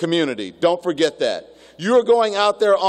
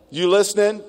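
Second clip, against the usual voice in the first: Louisiana accent; 3 semitones higher than usual. Shown as a demonstration. Speaker teasing the women graduates, light Louisiana accent. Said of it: "That was my Louisiana accent".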